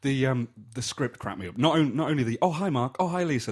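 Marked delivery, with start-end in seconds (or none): 2.4-3.5 high mock greetings; Tommy Wiseau. Quoting the script's repeated greetings, high imitated hello. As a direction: lightly imitate a stock film hello, pitched up. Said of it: "at the start of every scene".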